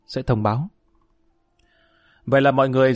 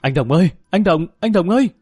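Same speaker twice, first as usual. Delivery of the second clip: rising urgent shout to the neighbour; calling out loudly; 5 semitones higher than usual. Acted. Man shouting for the neighbour through the rain, urgent yell. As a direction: yell over the rain for help. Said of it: "Tuấn vừa gào lớn".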